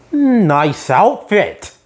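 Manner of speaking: deadpan man. Retold or imitated. Man's deadpan line in retold episode.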